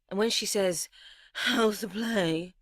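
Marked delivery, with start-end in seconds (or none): 1.3-2.6 slow, mock posh English accent on How's the play. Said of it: "I swear she had an accent".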